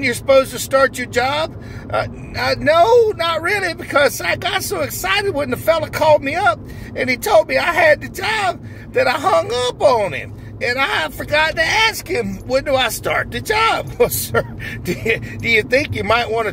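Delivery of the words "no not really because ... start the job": overjoyed new hire. Acted. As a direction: squeal it out like the happiest man alive. Character answers the interviewer.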